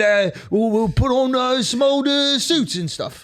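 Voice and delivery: laughing, hammed-up British gent; mock British accent. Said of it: "That's a good accent".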